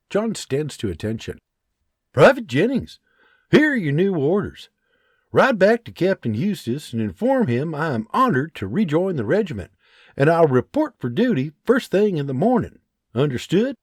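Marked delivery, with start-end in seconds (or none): 2.1-13.8 firm, higher officer's tone; lightly voiced Scottish sergeant giving orders; commanding sergeant. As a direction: give crisp orders. John gives orders.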